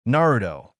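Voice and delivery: name slips out loud; a little too loud. Acted. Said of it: "a bit more loudly than she wanted".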